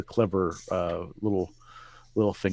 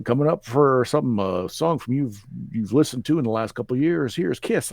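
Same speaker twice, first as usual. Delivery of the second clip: imitating AI DJ; 2 semitones higher than usual. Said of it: "He says".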